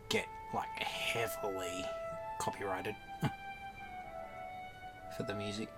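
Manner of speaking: whispering. Real, not acted. Aside about music copyright.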